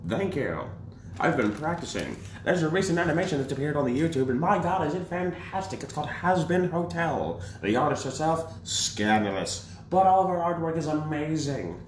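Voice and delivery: put-on lightly old-timey radio host; hint of a vintage broadcaster; 1950s narrator. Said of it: "nineteen fifties radio voices".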